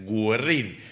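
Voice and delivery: slow Guerrín with the u sounded; Guerrín con diéresis. Shown as a demonstration. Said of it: "Tiene diéresis".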